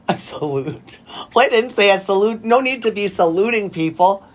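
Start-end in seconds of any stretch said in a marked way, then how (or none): 0.1-1.0 slow, drawn-out repeat with a laugh; amused, stretched mockery; mocking echo. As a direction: echo the word back teasingly. Mockingly repeats the other's word.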